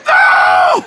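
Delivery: high, loud cry of protest; a shrill, loud protest of dismay; alarmed shout. Retold or imitated. Preacher startled by crowd.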